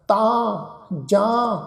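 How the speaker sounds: ਤਾਂ and ਜਾਂ each with a nasal aan; nasalised vowels. Shown as a demonstration. Teacher showing two words to the congregation, ਤਾਂ and ਜਾਂ nasalised. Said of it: "ਇਹ ਨਾਸਕੀ ਉਚਾਰਨ ਹੋਣਗੇ".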